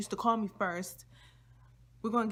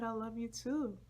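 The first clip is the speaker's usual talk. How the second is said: high little reply; 4 semitones higher than usual. Retold or imitated. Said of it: "I said".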